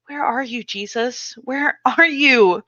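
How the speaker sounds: tearful plea. Acted. Crying for Jesus.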